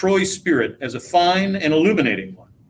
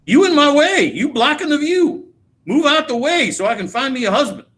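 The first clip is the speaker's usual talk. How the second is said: mocking Rose; 8 semitones higher than usual. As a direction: throw her words back in a big mock voice. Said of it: "That's what she told me".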